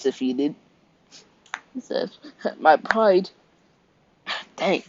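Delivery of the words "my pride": cracking squeak on "My pride.". Acted. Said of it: "that was a major voice crack".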